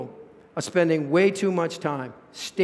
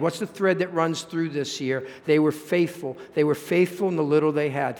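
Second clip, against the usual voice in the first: normal talking voice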